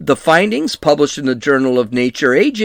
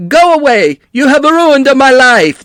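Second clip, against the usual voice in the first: angry shout; 9 semitones higher, 6 dB louder than usual. Retold or imitated. Quoting angry man at reporters.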